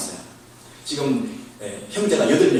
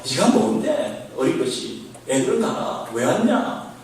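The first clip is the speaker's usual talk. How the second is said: put-on dismissive older brother; slower than usual. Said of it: "왈가왈부하면요".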